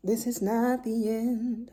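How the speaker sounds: slow, drawn-out "not" with weight; slow emphatic correction. Real, not acted. Mom correcting herself to viewers, slow and deliberate. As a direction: spell out "This is not the end" slowly and firmly. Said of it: "why am I closing the video?".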